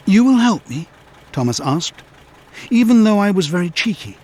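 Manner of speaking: lightly voiced abashed Thomas; sheepish engine. A narrator's reading. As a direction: ask in humble surprise.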